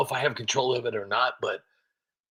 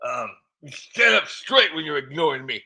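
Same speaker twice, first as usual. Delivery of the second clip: put-on old New England accent. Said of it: "doing my Yankee voice here".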